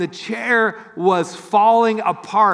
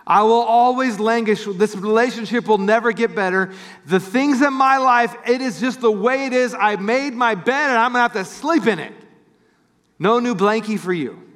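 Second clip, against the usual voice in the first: voice of despair; 4 semitones higher than usual. Retold or imitated. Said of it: "The lie the enemy wants".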